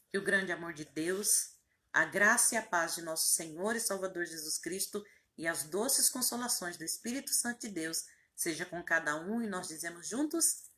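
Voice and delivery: measured liturgical blessing, lifting at the end to cue the amen; closing benediction. Real, not acted. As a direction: bless the listeners in a recited cadence. (bênção final em tom litúrgico)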